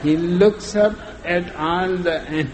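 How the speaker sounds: telling it through real laughter; can't stop laughing mid-joke; laughing while telling. Real, not acted.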